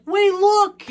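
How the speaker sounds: high-pitched mock alarm; urgent alert. Hero Girl pointing out what's on the tracks, urgent. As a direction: imitate a girl calling out a sudden sighting. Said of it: "Your girl's like".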